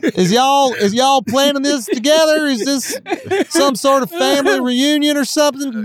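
high honky-tonk twang, amused; honky tonk accent. Pretend. Questioning China about a family reunion, in honky tonk accent. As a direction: keep up the hammed-up honky-tonk voice. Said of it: "say it in your honky tonk accent".

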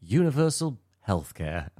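slow, careful British accent on a retold demo; imitated British accent. Video guy demonstrating words to Americans, mock British accent. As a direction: mimic a British presenter pronouncing it precisely. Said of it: "with an interesting tone".

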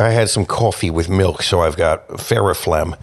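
rattly chesty voice; a croaky throat full of phlegm; phlegmy throat. Real, not acted. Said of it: "You sound like you have a scratchy throat".

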